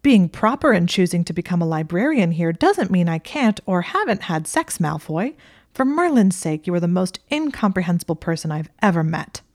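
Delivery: spitting mad. Acted. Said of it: "spitting mad".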